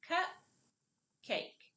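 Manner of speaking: "cup" and "cake" as separate syllables with a clear pause; syllables apart. Shown as a demonstration. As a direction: break the word into two isolated beats. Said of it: "put the word back together".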